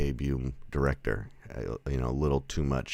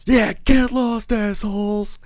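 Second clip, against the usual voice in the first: very high, loud falsetto yell, drawn out; hammed-up screech; 9 dB louder, slower than usual. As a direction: imitate a crazy woman screeching at strangers. Crazy woman yells after Clint.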